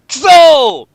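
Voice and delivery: a hammed-up anime curse; shouted curse. A narrator's reading. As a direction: spit out the curse in anger. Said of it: "He swore".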